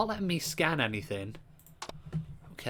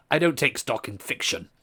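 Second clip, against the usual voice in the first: posh voice. Acted. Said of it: "so he's gonna stay with the posh".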